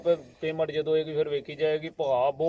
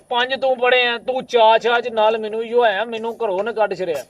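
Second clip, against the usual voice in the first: higher and louder, exasperated; heated outburst; 4 semitones higher, 4 dB louder than usual. Acted. Shouting down his friend about the visa, exasperated. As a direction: demand to be heard.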